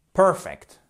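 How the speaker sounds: "perfect" stressed PER-fect; first-syllable stress. Shown as a demonstration. Teacher repeating the corrected word, perfect stressed up front. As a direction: hit the first syllable of "perfect", then fall. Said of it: "Attention, ici".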